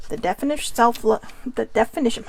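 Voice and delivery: stumbling and restarting; tongue-tied. Real, not acted. Speaker trying to reread a definition, tongue-tied. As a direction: trip over the phrase and start over. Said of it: "I'm getting tongue-tied".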